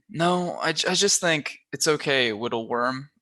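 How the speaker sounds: put-on teasing baby talk, lisping Whittle Worm; annoying baby voice. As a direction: talk down like to a toddler. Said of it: "in his annoying baby voice".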